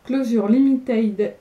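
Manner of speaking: English title said with a clumsy French-English accent; bad English accent. Shown as a demonstration. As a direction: Closure Limited pronounced in a poor English accent, French vowels. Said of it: "avec mon accent anglais hyper nul".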